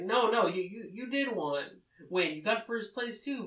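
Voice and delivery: acted-out excited insistence; emphatic reassurance. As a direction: jump in to set them straight, pitch lifting. Acting out correcting her misunderstanding.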